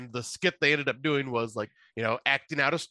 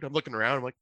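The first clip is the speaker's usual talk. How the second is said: usual speaking voice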